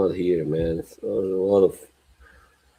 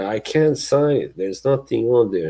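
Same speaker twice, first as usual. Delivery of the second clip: higher-pitched mock protest; retold protest; 4 semitones higher than usual. Goalkeeper objecting to a blank contract, retold protest. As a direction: protest like a player put on the spot. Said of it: "then he was like".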